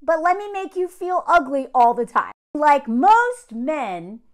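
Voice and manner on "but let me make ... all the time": lightly voiced gushing sweet talk, higher and louder; mock two-faced boyfriend. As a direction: imitate a man piling on love-bombing. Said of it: "say one thing and do the opposite".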